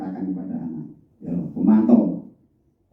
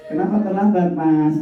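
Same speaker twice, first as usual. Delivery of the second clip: softer monitor's question; 9 semitones higher than usual. Shown as a demonstration. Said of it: "Lebih lunak ya ini ya".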